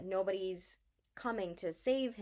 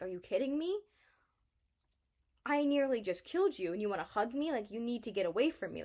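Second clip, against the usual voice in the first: higher-pitched mock outrage; pushing someone away, voice raised at first; retold incredulous protest; 4 semitones higher, 3 dB louder than usual. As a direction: imitate exasperated disbelief. Retelling Sutter rebuffing the hug.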